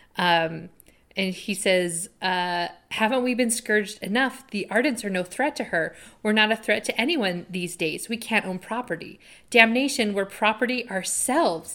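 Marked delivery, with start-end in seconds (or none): none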